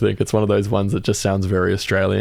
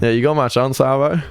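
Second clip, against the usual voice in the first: bogan Aussie quote; 4 semitones higher than usual. Retold or imitated. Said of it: "It's pretty bogan".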